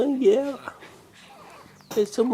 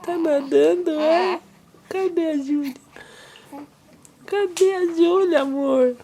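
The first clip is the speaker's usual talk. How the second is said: higher, sing-song peekaboo voice; 4 semitones higher than usual. Real, not acted. Father playing with baby Júlia, lilting sing-song.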